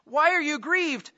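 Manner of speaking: clueless husband. Retold or imitated. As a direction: play the baffled husband who doesn't get it. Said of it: "He said to her".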